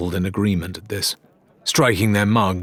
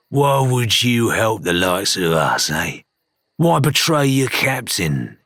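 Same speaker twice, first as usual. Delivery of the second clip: wary. Acted. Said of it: "he asked warily".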